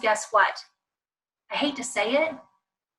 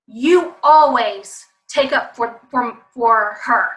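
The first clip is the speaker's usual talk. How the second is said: mimicking child; 5 dB louder, slower than usual. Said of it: "If they say, for example".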